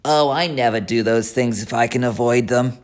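grumpy rat, a touch sour. Acted. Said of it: "replied the rat sourly".

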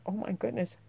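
high, breathy-soft oh my goodness; soft astonished relief; relieved surprise. Retold or imitated. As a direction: gasp of relief at the dog's return. Relieved at getting Pepper back.

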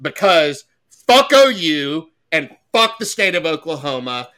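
loud hyped rally voice; amped up. Real, not acted. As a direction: pump the crowd up. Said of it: "extra amped up".

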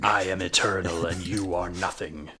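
booming villain proclamation. Retold or imitated. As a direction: declare it like an ancient evil. Voicing the villain's speech.

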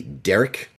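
Derek said in a broad Australian accent, like the name; Aussie drawl on Derek. Shown as a demonstration. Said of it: "in a very Aussie accent".

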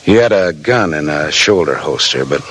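steady first-person detective narration; hardboiled narration. A narrator's reading. Detective telling listeners about his night, in steady narration. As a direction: tell it like a weary private eye.

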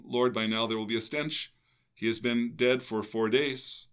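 Martha's line kept in the even reading voice; gospel reading. Acted. Reading Martha's words in the gospel, even proclamation. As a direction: read the objection straight, no acting.

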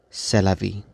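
put-on a light French accent on C'est la vie. Poet ends the poem for listeners in a mock French accent. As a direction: shrug it off the way a Parisian would. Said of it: "in your best French accent".

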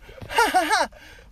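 high, loud burst of laughter. Real, not acted. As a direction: let a big laugh out. Laughs after the story.

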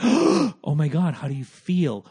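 mocking gushy concern; drawn-out, over-concerned sympathy. Imagined classmate fussing over a kid who got yelled at, mock sympathy.

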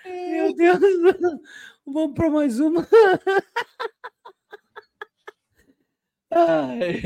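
breathless from laughing; high, winded after a laughing fit; after laughing hard. Real, not acted. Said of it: "deixa eu respirar aqui".

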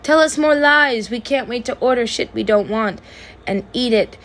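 high, gushing customer voice; mock customers. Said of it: "they're like".

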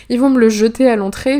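plus haut et nettement plus fort, comme une alerte; panique imaginée. Retold or imitated. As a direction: crier sa crainte d'un coup. Panique imaginée devant la fouille. (elle imagine qu'on lui confisque son livre, panique mi-jouée)

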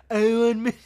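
lightly voiced bad politician impression, cut short by laughter; Trump. Host retrying the tweet's ending, half-hearted Trump impression. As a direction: start a bad president impression and break off. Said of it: "terrible Trump impression".

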